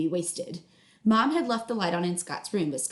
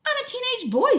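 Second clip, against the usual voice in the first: put-on teen sass; 6 dB louder than usual. Teen brother retorts.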